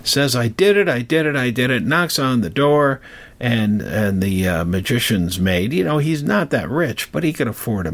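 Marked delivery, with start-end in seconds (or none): 0.4-1.8 excited hollering. Retold or imitated. Apprentice running to his master's house, excited hollering. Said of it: "just whoops and hollers".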